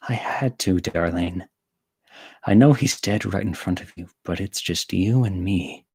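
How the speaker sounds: lightly voiced obsessive lover, hushed; Yandere voice. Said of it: "say this in the Yandere voice".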